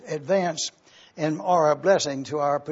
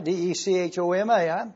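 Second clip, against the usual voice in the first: letters rattled off briskly; quick spelling; faster than usual. Real, not acted. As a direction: spell it out quickly in one run. First spelling of the Greek word.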